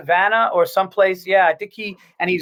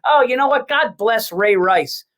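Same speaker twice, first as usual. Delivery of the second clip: higher sneering start, then slow pointed drop; mock-sweet then slow and cutting; sarcastic comic; 3 semitones higher than usual. Comic taunting two talking women, slow sarcastic jab. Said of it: "I just hear him go".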